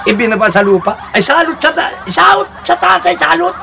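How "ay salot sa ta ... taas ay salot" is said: mock exasperation. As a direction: call them a pest. Calling them a curse.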